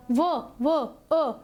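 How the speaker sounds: "ਵ" repeated alone, then its vowel "ਅ"; isolated sounds. Shown as a demonstration. Teacher shows the vowel sound, "ਵ" and "ਅ" said in isolation. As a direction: sound out "ਵ… ਵ… ਅ" with short gaps. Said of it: "ਅ ਦੀ ਆਵਾਜ਼".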